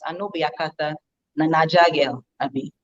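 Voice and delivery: soft, quiet Nigerian Pidgin comeback; Pidgin English reply. Retold or imitated. Teller replays her Pidgin comeback to the lady, quietly. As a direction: answer back coolly in Nigerian Pidgin. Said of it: "So my response was".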